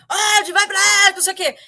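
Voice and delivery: mock yell of an angry heckler; imitated distant bellowing. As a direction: holler it as if from far off. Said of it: "ele berrando, né, de longe".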